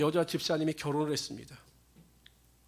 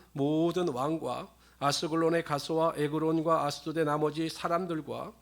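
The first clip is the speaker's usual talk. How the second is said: louder, solemn Bible reading; scripture reading; 4 dB louder than usual. Acted. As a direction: proclaim the verses to the congregation.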